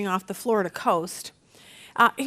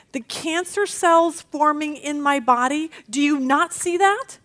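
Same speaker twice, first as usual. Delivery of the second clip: mildly raised, insistent questioning; acted exasperation; 3 semitones higher than usual. Sick believer asking Jesus to notice, mildly exasperated. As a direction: press the question with a touch of disbelief.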